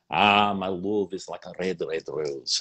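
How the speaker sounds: reciting a poem in Scots; Scottish accent. Shown as a demonstration. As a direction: roll it like a Scottish poet. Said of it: "doing my Scottish accent".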